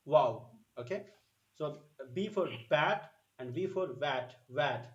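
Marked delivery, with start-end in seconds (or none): 2.1-4.9 "bat" with a hard B, "vat" with a w-like V; contrasting B and V. Shown as a demonstration. Teacher shows learners the difference, "bat" versus "vat". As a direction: set "bat" clearly against "vat". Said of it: "So there is a difference".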